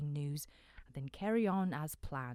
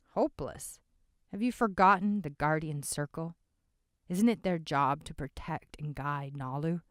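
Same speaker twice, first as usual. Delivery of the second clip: calm voice; 9 dB louder than usual. A narrator's reading. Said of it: "a calm voice said".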